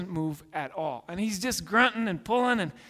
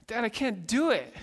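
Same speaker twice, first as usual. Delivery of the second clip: almost in tears; 4 semitones higher than usual. Retold or imitated. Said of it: "And he's almost in tears".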